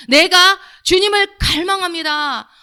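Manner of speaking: loud, high, slow declaration; fervent confession of faith. Shown as a demonstration. Worshipper confessing thirst for the Lord, fervent cry. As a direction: cry out longing to the Lord, drawing it out. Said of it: "그렇게 믿음의 고백을 하면서".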